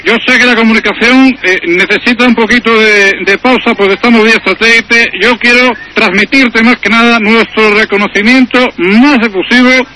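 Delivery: lightly voiced Spanish prime minister; a hint of Aznar's formal speech; José María Aznar impression. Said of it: "le paso con el presidente Aznar".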